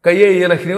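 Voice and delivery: క and ఏ wrongly fused into కయ్యే; mispronounced mantra. Retold or imitated. Guru imitates a careless chanter on video, slurring క ఏ into కయ్యే. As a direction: run the letters together as "kayye" in కయ్యే ఈల హ్రీం. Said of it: "ఆ ఏ అలా చదవకూడదు".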